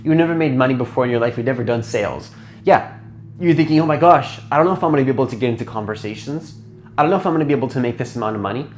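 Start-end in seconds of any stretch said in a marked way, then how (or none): 3.8-8.7 anxious rush. Retold or imitated. Anxious new business owner's thoughts.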